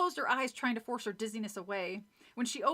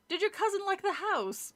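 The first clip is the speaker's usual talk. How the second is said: lightly snooty neighbor lady; a hint of a prim snob; snobby voice; 8 semitones higher than usual. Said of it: "do the snobby voice for both".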